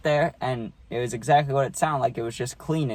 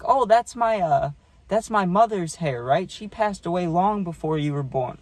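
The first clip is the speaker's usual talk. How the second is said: grandma voice; 6 semitones higher than usual. Retold or imitated. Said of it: "And she's like".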